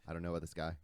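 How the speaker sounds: low, hushed retold confession; dead serious. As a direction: confide it quietly, as if taken aside. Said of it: "He's dead serious".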